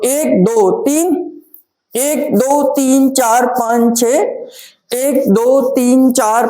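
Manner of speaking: rhythmic counting. Shown as a demonstration. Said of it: "ऐसे खड़े होके देंगे".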